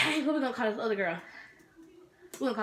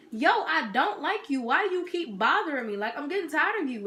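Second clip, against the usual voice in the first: raised-pitch, exasperated telling-off; higher, mildly fed-up retort; retold confrontation; 5 semitones higher than usual. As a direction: act out telling someone you're fed up. Retelling her confrontation with rival.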